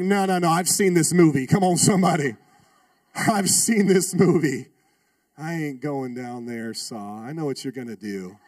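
loud alarmed protest, then dropping low; panicked refusal. Retold or imitated. Student refusing the dark basement, loud alarm. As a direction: refuse it loudly, freaked out.

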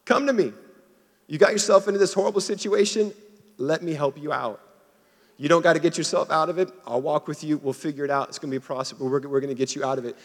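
preacher playing Jesus, high and loud, urging them to come; voicing Jesus, excited. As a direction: call the sinner in with big open excitement. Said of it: "Jesus is saying".

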